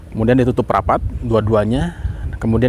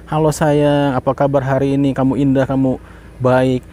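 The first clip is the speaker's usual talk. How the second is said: loving, peaceful tone. Shown as a demonstration. Demonstrating kind words to the rice jar, gently loving. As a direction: speak to it with love and kindness. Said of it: "intonasinya itu damai, penuh cinta gitu ya".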